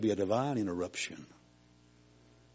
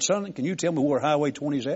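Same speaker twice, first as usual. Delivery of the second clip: lost driver asking; 5 semitones higher, 4 dB louder than usual. Retold or imitated. Stranger asks boy directions.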